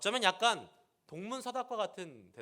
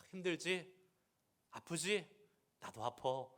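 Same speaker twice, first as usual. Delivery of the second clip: imagined comforting God. Pretend. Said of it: "이렇게 하나님 해주실 줄 알았는데".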